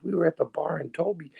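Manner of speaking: high-pitched storytelling stranger; excited stranger. Retold or imitated. Stranger confessing to the speaker after the meeting, high imitated voice. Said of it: "this is him, not me".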